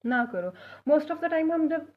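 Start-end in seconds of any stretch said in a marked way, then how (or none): 0.1-0.5 slow, clear मैनू नज़रअंदाज ना करो; teacher modelling Punjabi slowly; slow Punjabi model. Shown as a demonstration. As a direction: dictate it slowly to learners. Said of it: "इसको पंजाबी में हम बोलते हैं".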